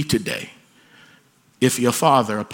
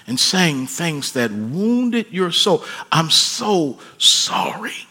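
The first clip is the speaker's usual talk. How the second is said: slow, drawn-out heartfelt apology; aching sorry, taken slowly; fatherly apology; 4 semitones higher, much slower than usual. Acted. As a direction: stretch out the regret, pleading. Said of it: "if our children heard us say these things".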